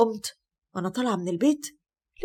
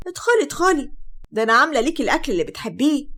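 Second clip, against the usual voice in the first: high, louder eager welcome; a mother gushing at the door; 4 semitones higher, 3 dB louder than usual. Acted. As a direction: call her in with delight. Mother welcoming daughter-in-law in.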